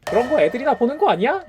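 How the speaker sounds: scoffing, condescending question; dismissive sneer. Retold or imitated. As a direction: talk down like it's kids' stuff. Mocking a dismissive remark.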